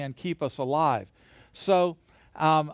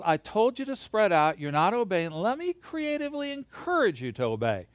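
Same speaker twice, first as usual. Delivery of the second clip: God scolding; 4 semitones higher than usual. Retold or imitated. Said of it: "God says".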